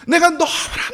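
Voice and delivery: ordinary talk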